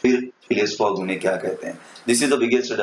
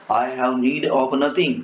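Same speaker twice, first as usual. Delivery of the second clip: cold reply; 3 semitones higher, much slower than usual. Shown as a demonstration. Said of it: "replied the gentleman coldly".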